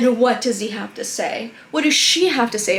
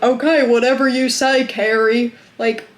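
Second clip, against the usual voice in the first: raised, exasperated mock quote; mocking boyfriend. Vlogger mocking the passive boyfriend, exasperated and raised. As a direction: push the words up in frustrated mockery. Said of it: "And he's like".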